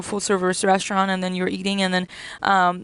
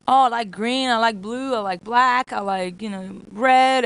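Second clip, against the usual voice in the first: imitating a child; 2 semitones higher, 6 dB louder than usual. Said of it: "And they're gonna tell you".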